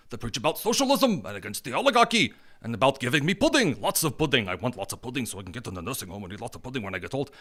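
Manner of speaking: put-on mumbly old man whining for pudding; mock old person. Commentator mocking voters as a pudding-craving old man. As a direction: lisp it like a toothless old man begging for pudding.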